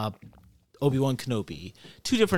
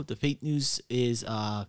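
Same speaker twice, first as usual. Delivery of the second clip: ordinary talk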